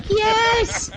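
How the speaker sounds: high-pitched retold delight; gleeful, drawn-out cheer; elated. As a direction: exult as if in heaven. Retold delight at petting a cat.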